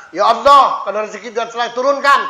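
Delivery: loud, fast, pushy prayer; demanding prayer. Retold or imitated. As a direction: demand it from God, loud and hurried. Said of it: "sambil mata awak melal". (doa memaksa, keras dan cepat)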